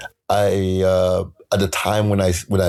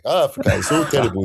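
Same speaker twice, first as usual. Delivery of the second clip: put-on mild African accent, a little higher; 4 semitones higher, faster than usual. Poet voicing someone who hated London, mild African accent. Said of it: "I had an African accent".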